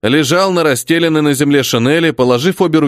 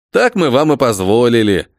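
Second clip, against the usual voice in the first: ordinary delivery, nothing marked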